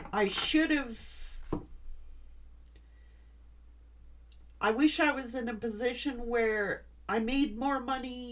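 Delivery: talking through tears you are fighting to hold back; real tears, barely holding together. Real, not acted. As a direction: voice tight and wavering with tears. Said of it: "I'm gonna cry".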